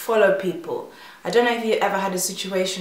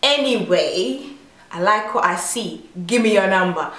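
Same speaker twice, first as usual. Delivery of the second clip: imitating the guy; 4 dB louder than usual. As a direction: play the smug flirt. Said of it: "he was like".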